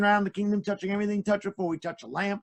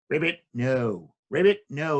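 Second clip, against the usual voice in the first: frog puppet; 4 semitones lower than usual. Acted. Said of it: "let me introduce you to him".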